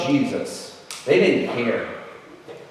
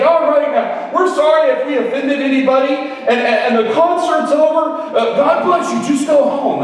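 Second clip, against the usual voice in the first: imitated nervous pastor, higher and wavering; shaking voice; 5 semitones higher than usual. Host pastor apologising to the crowd and ending the concert, imitated shaky higher voice. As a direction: mimic a rattled pastor's trembling apology. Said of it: "Why is his voice shaking?".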